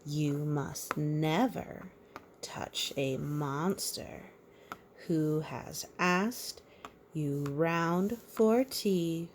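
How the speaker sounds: slow, sing-song picture-book reading; measured storybook rhyme; reading to a child. A narrator's reading. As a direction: read the rhyme gently to a little one. Reads rhyme again.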